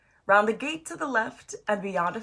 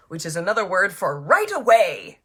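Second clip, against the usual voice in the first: whispered aside; 6 dB louder than usual. Real, not acted. Aside explaining a word.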